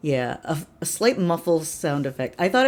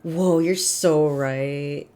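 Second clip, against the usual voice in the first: awed fortune voice; 5 dB louder, much slower than usual. Retold or imitated. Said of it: "fortunes are just kind of like".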